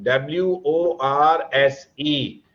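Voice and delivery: slow letter by letter spelling; spelling out slowly. Shown as a demonstration. Teacher spelling a word slowly for students. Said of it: "Is even worse than".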